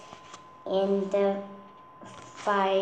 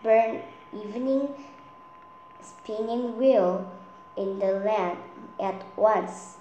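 commanding. Acted. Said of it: "the king".

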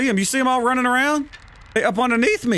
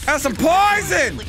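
gloating taunt; slower than usual. Pretend. Repeated slow taunt.

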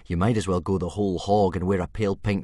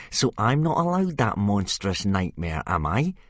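louder taunting bully voice; jeering bully; 6 semitones higher, 6 dB louder than usual. Acted. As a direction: goad him, loud and sneering. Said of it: "jeered Snotlout".

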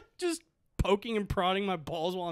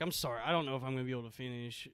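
sheepish apology; 7 semitones lower, 10 dB quieter, much faster than usual. Retold or imitated. His apology retold.

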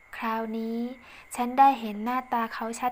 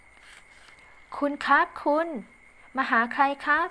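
slow, higher polite officer; male officer voice; 3 semitones higher, 4 dB louder, much slower than usual. A narrator's reading. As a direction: ask her politely, drawn out. Officer greets narrator at office. (เสียงเจ้าหน้าที่ชายพูดช้าๆ สุภาพ)

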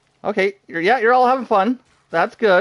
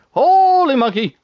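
high, loud and drawn out slowly; startled exclamation; 10 semitones higher, 7 dB louder, slower than usual. Real, not acted. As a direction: blurt it out slowly in real shock. Startled by sudden enemy attack.

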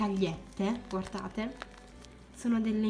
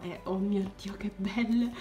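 awed whisper; 2 semitones lower than usual. Real, not acted. Awed gasp at glitter.

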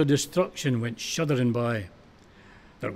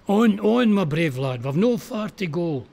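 a raised, high call of encouragement; urging shout; 4 semitones higher, 3 dB louder than usual. Acted. McPhee urging his carrier onward, raised shout. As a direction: spur him on with a loud cry.

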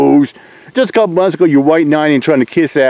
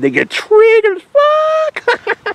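mocking drawl; much slower than usual. Real, not acted. Mocking trolls, drawn out.

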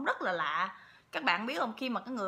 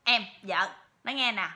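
a hint of the husband's own voice, a bit louder; husband's normal voice; 6 dB louder than usual. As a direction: gently call your wife, lightly voiced. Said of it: "cái giọng của ổng như vậy nè". (giọng chồng bình thường, nhại nhẹ)

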